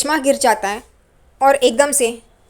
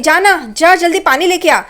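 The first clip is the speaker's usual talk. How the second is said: urgent shout; 5 semitones higher, 4 dB louder than usual. Retold or imitated. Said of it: "फिर चिल्ला के रोशनी को बोलती है".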